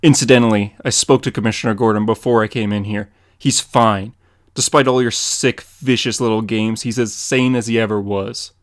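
stern loud threat. Acted. Batman towering over the Joker, loud and stern. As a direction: lean over him and drive it home.

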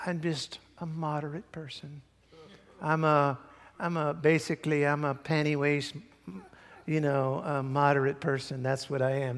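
mildly mocking a mild-mannered man; understated, wishy-washy take on a meek person. Preacher imitating a moderate person, mock meek. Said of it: "acting like that".

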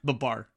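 "Babar" as buh-BAR; stressed second syllable. Shown as a demonstration. Co-host corrects the name, "Babar" as buh-BAR. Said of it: "I say Babar".

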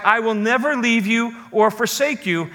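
emphasis on the word "never"; stress on never. Shown as a demonstration. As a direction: lean on "never" as the key word of the promise. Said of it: "Emphasis on the word never".

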